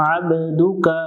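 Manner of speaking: আবদুকা with the ain pressed in the throat and an echo on the ba; আবদুকা recited with throat-pressed ain. Shown as a demonstration. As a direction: squeeze the throat for the ain in আবদুকা, let the ba ring. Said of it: "আইন অক্ষরটাতে ... প্রতিধ্বনি সৃষ্টি করব".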